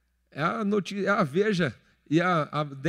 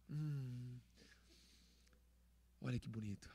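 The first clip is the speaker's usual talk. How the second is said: mock cooing wife; 9 semitones lower, 25 dB quieter than usual.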